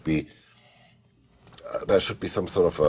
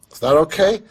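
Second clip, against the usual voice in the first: high timid question; 12 semitones higher, 7 dB louder than usual. Retold or imitated. Lisa asks Ridley after take.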